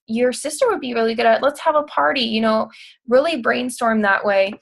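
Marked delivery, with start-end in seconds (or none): 0.1-2.2 soft gushing tone. Shown as a demonstration. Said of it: "You know, soften your tone".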